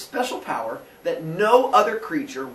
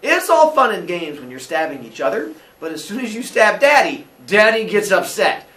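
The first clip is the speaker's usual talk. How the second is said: louder, scolding dad lecture; stern father; 3 semitones higher, 6 dB louder than usual. Acted. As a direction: lay down the law to the kids. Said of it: "Father Sky goes".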